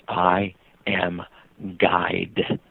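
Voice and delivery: "guide" said with a clear long-i vowel, set apart by a pause; pause, then land "guide" low with an "eye" vowel; intended word revealed. Retold or imitated. Storyteller reveals what the kid meant, "guide" set apart with long i. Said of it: "what that kid had meant to say".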